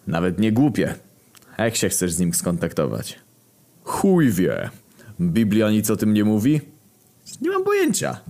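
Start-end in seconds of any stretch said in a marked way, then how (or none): 3.8-4.7 gruff character voice. Acted. Character voice, War replies. 7.4-8.2 pitched-up squeaky voice; high character voice. Acted.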